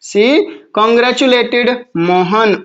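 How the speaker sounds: very slow, drawn-out "congratulated"; slow dictation. Shown as a demonstration. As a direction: spell the answer out slowly. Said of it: "तो क्या बनेगा". ("congratulated" बहुत धीरे खींचकर बोलते हुए)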